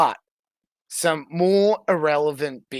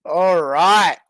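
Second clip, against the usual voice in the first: whispered all right; a hushed aside under the noise; 5 dB louder than usual. Real, not acted. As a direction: breathe it with no voice.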